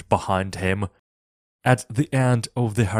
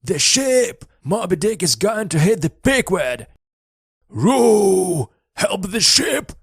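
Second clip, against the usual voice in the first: high, loud alarmed yell; frantic shout; 11 semitones higher, 5 dB louder than usual. A narrator's reading. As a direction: scream the warning across the water. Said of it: "Flask suddenly shouted".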